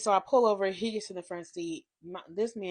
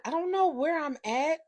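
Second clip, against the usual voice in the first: pitched up and louder; higher anxious protest; 9 semitones higher, 4 dB louder than usual. Retold or imitated. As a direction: protest with rising alarm. Anxious reply.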